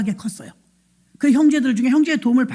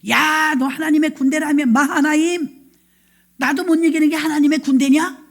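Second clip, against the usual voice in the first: mildly raised taunt, acted; mock taunting giant; 3 semitones higher than usual. Goliath daring Israel's army to fight, mock taunting. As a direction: challenge them like a jeering champion. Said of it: "고래고래 소리를 지르면서 하나님을 조롱하는".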